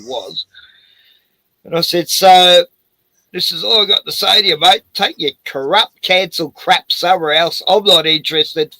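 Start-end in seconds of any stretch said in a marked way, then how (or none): 2.1-8.7 firm telling-off. Retold or imitated. Telling off the council officer.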